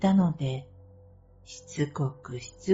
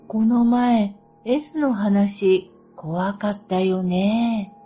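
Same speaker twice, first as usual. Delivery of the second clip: louder, slow, spooked recollection; shuddering; 4 semitones higher, 5 dB louder than usual. Retold or imitated. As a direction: shiver while recalling it. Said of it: "身震いしながら".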